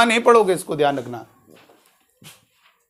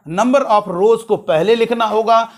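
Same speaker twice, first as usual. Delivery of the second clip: number stressed, said slowly and deliberately; slow stressed rule; slower than usual. Shown as a demonstration. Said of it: "ये ध्यान रखना है".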